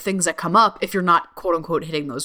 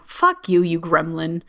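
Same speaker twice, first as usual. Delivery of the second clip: defiant outburst; 2 semitones lower than usual. Acted. Cursing the inner gremlin.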